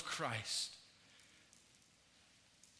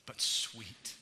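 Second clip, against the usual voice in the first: soft, lower reading of a hymn verse; hymn recited; 5 semitones lower, 8 dB quieter than usual. Acted. Preacher reads a hymn stanza to the congregation, soft recitation. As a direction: recite the stanza gently and softly.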